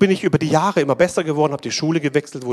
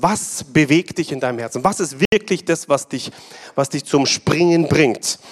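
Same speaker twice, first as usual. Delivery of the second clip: fiery preacher listing keys to a dream; full-force preaching; 3 semitones higher than usual. Acted. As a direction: drive each point home to the congregation. Preaching points to congregation.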